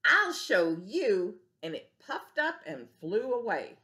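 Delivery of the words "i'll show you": slow, drawn-out grumpy threat; slow huffing grouchy bug; huffy threat. Acted. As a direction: puff up and stretch the threat. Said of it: "grouchy ladybug huffs off".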